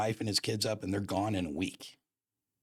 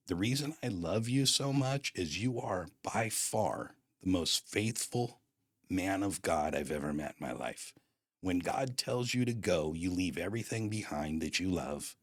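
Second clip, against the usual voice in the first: solemn admonishing. Retold or imitated. Pastor friend's solemn rebuke retold.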